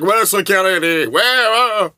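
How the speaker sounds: loud, high enraged yelling; angry shout. Retold or imitated. Lou yelling for security after the flash, loud enraged shout. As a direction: demand security at the top of your voice.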